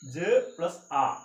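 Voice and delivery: "ജ്" then a drawn-out "ആ"; slow sound blending. Shown as a demonstration. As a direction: blend "ജ്" and long "ആ" slowly for learners. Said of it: "എന്ത് സൗണ്ടാ വരുന്നേ". ("ജ്", നീട്ടിയ "ആ" പതുക്കെ ചേർത്ത്)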